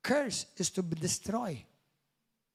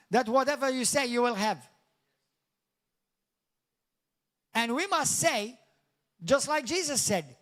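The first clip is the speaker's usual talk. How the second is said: raised, measured preacher's delivery; emphatic preaching; 5 semitones higher, 4 dB louder than usual. Acted. Preacher urging believers to speak like Jesus, emphatic. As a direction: preach it with force, pausing between phrases.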